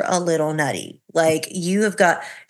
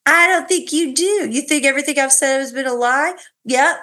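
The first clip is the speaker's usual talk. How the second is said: exasperated husband; 6 semitones higher than usual. Retold or imitated. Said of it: "he's like".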